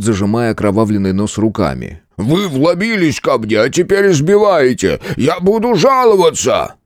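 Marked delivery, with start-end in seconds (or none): 2.2-6.7 outraged protest. A narrator's reading. Beaten innkeeper protests.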